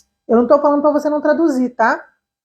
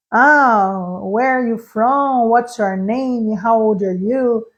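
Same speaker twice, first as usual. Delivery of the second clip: easy rote phrases; much slower than usual. Shown as a demonstration. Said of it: "frases em inglês aí que você já fala numa boa".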